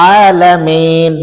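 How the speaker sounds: আলামিন slowly, the ন clearly released; tajweed demo. Shown as a demonstration. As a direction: stretch আলামিন and end on a clean ন. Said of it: "নুনের একক কি".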